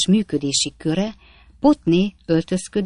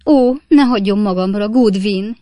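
higher, louder hammed-up whimper; 4 semitones higher, 6 dB louder than usual. A narrator's reading. Wife begging her maid not to leave, theatrical whimper. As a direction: plead with a theatrical whine. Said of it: "nyöszörögte Potné".

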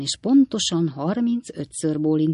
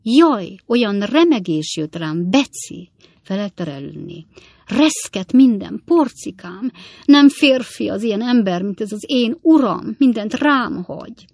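high, louder woeful complaint; lamenting; 4 semitones higher, 6 dB louder than usual. A narrator's reading. Redlné complains to Beci about her husband, lamenting. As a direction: wail theatrically about being left with everything.

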